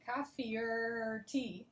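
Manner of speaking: slow "coffee or tea", OR drawn out as "er"; connected OR. Shown as a demonstration. Teacher showing the connected er, slowly linked words. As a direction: glide from coffee into a stretched "er". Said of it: "is a little more connected".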